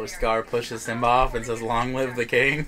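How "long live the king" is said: plain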